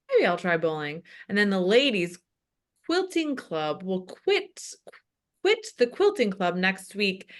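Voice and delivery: lightly voiced old pastor, breathing heavily; older heavy-breathing man. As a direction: read announcements like an old winded pastor. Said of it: "Continues reading".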